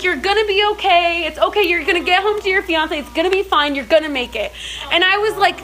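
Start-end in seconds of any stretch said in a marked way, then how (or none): 0.0-4.5 reassuring. Retold or imitated. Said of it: "telling me it was gonna be okay".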